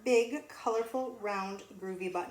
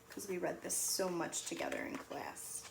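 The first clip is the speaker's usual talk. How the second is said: whispered aside; 4 semitones lower, 8 dB quieter than usual. Real, not acted. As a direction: let them in on a secret, whispering. Aside to class.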